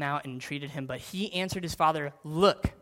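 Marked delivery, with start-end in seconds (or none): 2.2-2.7 louder, curt rising Look; blunt look. Shown as a demonstration. Older son cutting his father off with a louder, blunt look. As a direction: snap Look at him like a resentful son. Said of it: "not, "Hey, Dad," just, "Look".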